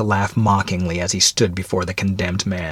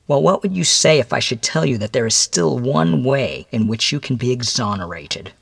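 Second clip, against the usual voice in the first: higher-pitched, deliberate stranger's voice; measured visitor addressing a condemned man; stern mysterious visitor; 4 semitones higher than usual. Acted. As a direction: spell out the grim facts in a higher voice.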